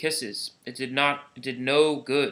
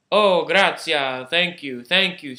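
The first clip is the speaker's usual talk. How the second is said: grateful; 5 dB louder, slower than usual. Acted. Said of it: "the people cried".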